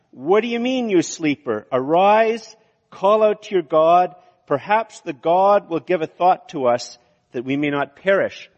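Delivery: high, loud, indignant demand; indignant captain. Acted. Ship captain rousing sleeping Jonah, loud and indignant. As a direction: roar him awake in outrage. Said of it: "it can either be indignation".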